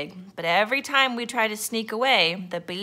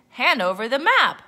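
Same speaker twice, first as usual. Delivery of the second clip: loud, higher pirate order; pirate captain; 4 semitones higher, 6 dB louder than usual. A narrator's reading. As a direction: demand it as the captain. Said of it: "said Braidbeard".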